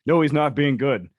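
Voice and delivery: half-laughing tell-off of the handler; exasperated scolding. Retold or imitated. Scolding handlers praising bad bite.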